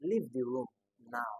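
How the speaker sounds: "Leave the room now" as a command, falling on "now"; falling intonation. Shown as a demonstration. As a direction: order "Leave the room now" unexcitedly, tune dropping. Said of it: "commands will always have".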